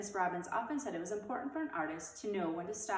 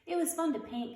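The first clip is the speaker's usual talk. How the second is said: higher, louder happy admission; confiding; 9 semitones higher, 4 dB louder than usual. A narrator's reading. Beezus confiding to her teacher, pleased. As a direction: share it shyly but glowing. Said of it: "confided Beezus".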